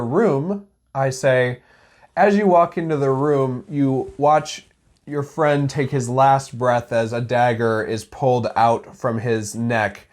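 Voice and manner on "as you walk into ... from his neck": measured, lightly dramatic scene setting; game master narration. Shown as a demonstration. Game master describing a friend's death to players, slow narration. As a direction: narrate it slowly with some gravity.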